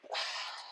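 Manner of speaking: soft, wordless huff; unimpressed sigh. Retold or imitated. Imitating an actress's resting bitch face, unimpressed sigh. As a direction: let out a bored sigh. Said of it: "with just resting bitch face".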